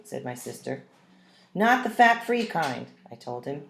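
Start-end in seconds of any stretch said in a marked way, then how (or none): 1.5-2.9 high, slow stress on not; insistent. A narrator's reading. Child warning dad about the milk. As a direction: press the word not firmly.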